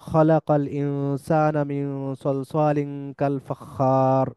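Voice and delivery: slow recited খালাকাল with a throaty kha; Quran recitation. Shown as a demonstration. Teacher reciting a verse to show students খ. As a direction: recite it slowly, Quran style. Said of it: "যেমন".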